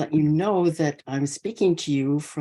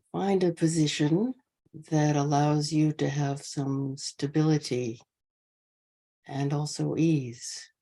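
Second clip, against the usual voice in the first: measured meditation guidance with long pauses between phrases; guided meditation; 4 dB quieter than usual. Real, not acted. Teacher easing an online sangha into posture, guided meditation. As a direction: settle the group gently, leaving space after each phrase.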